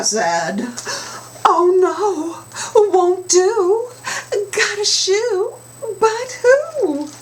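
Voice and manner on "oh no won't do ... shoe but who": whole chorus up high and loud. Acted.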